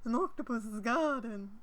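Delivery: put-on slow, jokey Liverpool accent; rough Liverpool impression. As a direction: drawl it as mock Scouse. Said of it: "attempt to do a Liverpool accent".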